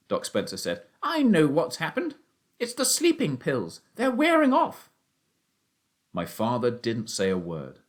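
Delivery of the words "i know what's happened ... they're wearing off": higher, louder, rising excitement; doctor realizing the sleeping pills wore off; excited realization. Acted. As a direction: blurt it out as it dawns on him.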